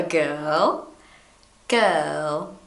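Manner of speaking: British English. Shown as a demonstration. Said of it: "It's almost not there".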